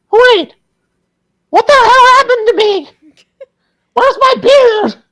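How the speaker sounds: shrieking yell, very high and very loud. A game master voices a reincarnated dwarf who is now a halfling, yelling in a very high voice. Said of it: "yelling at them with a very high-pitched voice".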